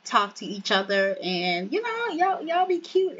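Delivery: lightly voiced excited friend; hyped matchmaker friend. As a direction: gush like a nosy friend pairing them up. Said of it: "And he's like".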